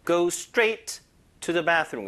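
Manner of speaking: very slow, Go and bathroom punched; stress on go. Shown as a demonstration. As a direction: drag it out, hitting Go. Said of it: "Straight 같은 거 쓰면 됩니다".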